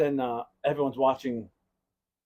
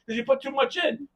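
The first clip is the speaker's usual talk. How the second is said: high-pitched questioning, building louder; acted accusing question; 8 dB louder than usual. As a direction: press dad with mock accusation. Questioning dad in retold scene.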